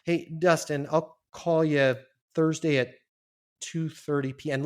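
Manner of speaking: slow and searching, like finding the words; slow, thoughtful. Shown as a demonstration. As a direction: take your time, as if thinking it over. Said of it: "Listen to how I sound like I'm trying to find the words".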